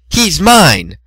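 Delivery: high jealous claim; possessive shout. Acted. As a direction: stake the claim. Rivals quarrel.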